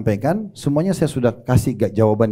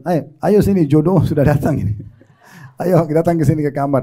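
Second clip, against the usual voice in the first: ajakan bersemangat; 2 semitones higher than usual. Retold or imitated. Menelepon si bujang, menyuruhnya segera datang.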